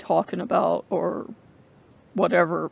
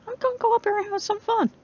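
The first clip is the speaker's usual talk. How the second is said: much higher and fast, relishing mischief; Loki's gleeful threat; 14 semitones higher, faster than usual. Retold or imitated. Loki heading off to punish the sister, high and gleeful. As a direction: promise trouble with playful glee. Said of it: "he was like".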